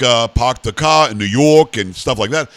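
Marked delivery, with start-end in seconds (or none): 0.3-1.8 slow, lightly imitated New York-Boston accent. Host shows how the north changed English, mock New York-Boston accent. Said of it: "to the north they went like".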